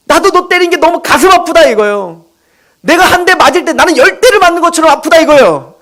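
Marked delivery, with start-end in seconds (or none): 0.1-1.7 higher, louder plea of a hurting parent; preacher voicing a parent's heartache, pleading; pained parent. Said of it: "그런 심정으로 때리는 거". 2.8-5.2 higher, louder plea of a hurting parent; preacher voicing a parent's heartache, pleading; pained parent. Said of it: "그런 심정으로 때리는 거".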